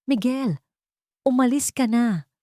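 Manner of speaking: high, pleading shout with a cracked voice; shouting back. Acted. Wife shouts at her drunk husband in the lobby, cracking yell. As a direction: shout him away, voice breaking. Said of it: "sigaw pabalik ni Clarice".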